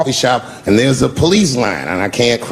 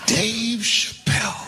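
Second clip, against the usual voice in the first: slow, drawn-out, higher call of the name; a light Obama greeting, stretched out; 9 semitones higher, 8 dB quieter, much slower than usual. Retold or imitated. Obama recognizes him warmly.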